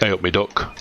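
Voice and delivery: a light Derby lilt on hey up me duck; Derby accent. Shown as a demonstration. Demoing his Derby home accent to an Aussie friend, light Derby lilt. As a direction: drop into the local Derby greeting. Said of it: "That's what they still sound like".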